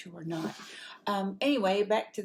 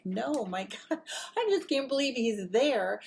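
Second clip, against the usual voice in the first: higher and louder, breathless with laughter; starstruck excitement; 5 semitones higher, 3 dB louder than usual. Retold or imitated. To her friend, refusing to go say hello, starstruck and excited. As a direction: gush like a starstruck fan who can't believe it.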